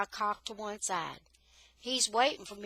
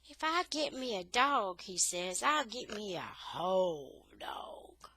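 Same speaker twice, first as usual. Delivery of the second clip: sneering. Acted. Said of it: "with his lip all curled up".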